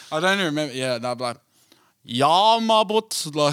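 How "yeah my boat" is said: a hint of South African accent; light South African twang. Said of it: "try to do a South African accent".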